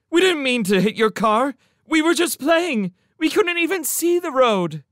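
high, loud frantic pleading; desperate. A narrator's reading. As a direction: plead your innocence desperately. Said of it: "she said desperately".

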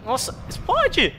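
very high, loud and slow yell; high panicked yell. Real, not acted. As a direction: scream at the grenade to go off. Yelling at grenade, panicking.

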